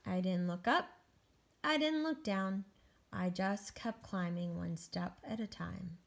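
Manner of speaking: deliberate, suspenseful storybook reading; picture-book narration. Acted. Egg climbs the wall terrified, suspenseful storybook narration. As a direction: build the climb with weighted words.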